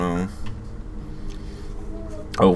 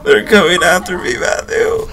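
panicked, high and fast; 8 semitones higher than usual. Real, not acted. Chased by monsters, calling friend.

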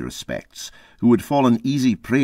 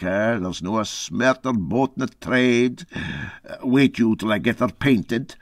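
lightly voiced gruff Scots skipper, hesitant; a hint of an old Scots sea captain brushing it off; 3 semitones higher than usual. Captain shrugging off the narrator's question, lightly voiced Scots.

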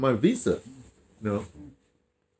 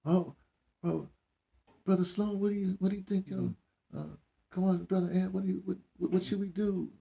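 higher, softer mock plea for advice; a light, higher, hushed asking voice; pleading locals; 9 semitones higher, 8 dB quieter than usual. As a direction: imitate people begging Brother Sloan for answers. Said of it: "it's like".

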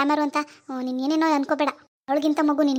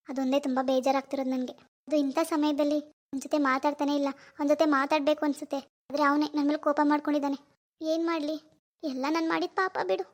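fake sadness; 4 dB quieter than usual. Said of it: "ಇಷ್ಟೆಲ್ಲ drama ಮಾಡಿದ್ದು".

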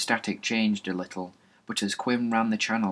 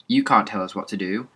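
put-on defiant but shaky kid, a bit louder; unsure belligerence; 5 dB louder, faster than usual. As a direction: push back without conviction. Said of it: "Belligerent, but not sure of himself".

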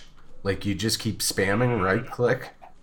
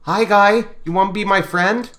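calling a stray puppy; 8 semitones higher, 3 dB louder than usual. Real, not acted. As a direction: coax the pup, higher and sing-song. Taming a stray puppy in-game.

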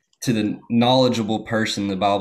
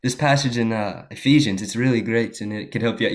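put-on African English accent. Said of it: "doing the accent".

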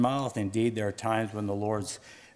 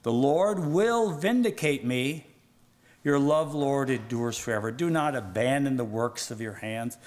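raised, emphatic psalm reading, settling toward the end; declaimed scripture; 4 semitones higher, 3 dB louder than usual. Acted. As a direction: proclaim the psalm with conviction.

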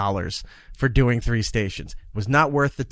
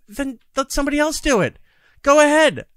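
much higher and louder, daring them; defiant retort; 10 semitones higher, 4 dB louder than usual. Retold or imitated. Host answering the boss who threatens to replace him, loud and defiant. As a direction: throw it back at them: go ahead.

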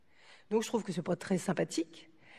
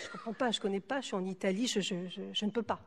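softer, stammered refusal acted out; rifiuto esitante; 5 dB quieter than usual. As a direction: back away from the request, tripping over "je". Rifiuta la richiesta, scena raccontata.

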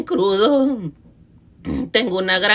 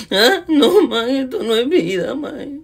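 mock sobbing; 2 semitones higher, slower than usual. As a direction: fake crying, half laughing. Lamento con risa y llanto. (llanto fingido entre risas)

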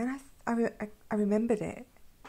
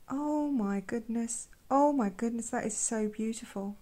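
excited gushing; 2 semitones higher than usual. Real, not acted. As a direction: gush over the paint colour. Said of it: "I'm becoming too excited here".

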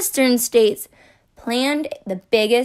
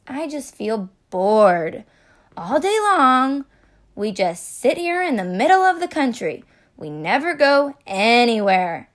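moaning; 4 dB louder than usual. Acted.

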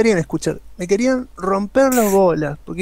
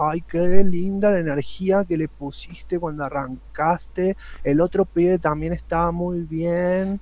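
effeminate voice; slower than usual. Retold or imitated. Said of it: "no hablaban tan aputosados".

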